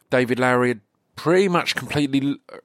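normal talking voice

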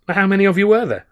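high, loud amazed question; startled question to the butler; astonished. Acted. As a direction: rise up in disbelief.

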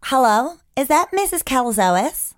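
lightly put-on American caller; tentative American phone voice; American accent. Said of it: "Um, Aus-, American?".

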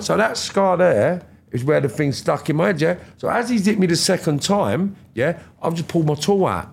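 ordinary delivery

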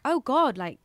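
mock astonishment, slow and drawn out; over-the-top realisation. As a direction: imitate someone having an absurdly big epiphany. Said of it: "over-the-top way and just going".

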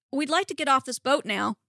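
firm, mildly frustrated demand; insist, with frustration building. Acted. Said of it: "Peter demanded".

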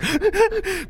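high, panicked gasping; rapid panicky breaths; hyperventilating. Acted. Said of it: "Porge began hyperventilating".

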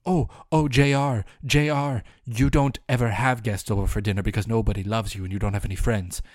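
hammed-up nasty editor voice; mocking the editor. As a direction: mimic a snotty comeback. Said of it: "don't you dare come at me with".

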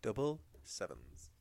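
slow, drawn-out bingo call; bingo caller. Shown as a demonstration. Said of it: "That's how I'd announce it if I was a bingo caller".

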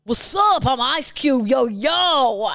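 hammed-up rapper impression; a famous rapper. Contestant attempting a famous rapper on request, mock rapper swagger. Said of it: "start with a rapper impression".

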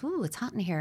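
notice the heat without feeding it; calm noticing. Retold or imitated. Parent as thermostat noticing child's distress, calm. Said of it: "But a thermostat says".

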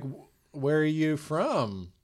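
slow mock Ukrainian accent; Natalie. Bride in a fight, slow Ukrainian accent. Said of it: "She talks like this".

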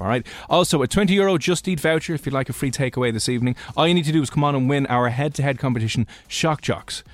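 punchy radio promo voice; booming prize announcer. Acted. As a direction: hype the prize like a DJ. Radio host promo for prize draw.

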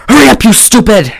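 high-pitched impatient mother imitation; mock scolding. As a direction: hurry him along, hammed up.

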